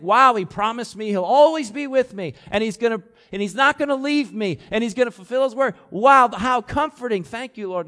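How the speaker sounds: high and loud, gushing; imagined comforted Jacob, gushing thanks; mock grateful relief. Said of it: "And so you'd think".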